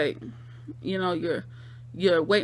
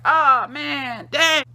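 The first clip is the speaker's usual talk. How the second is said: shocked reaction; 5 semitones higher, 6 dB louder, much slower than usual. Retold or imitated. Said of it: "that was just like".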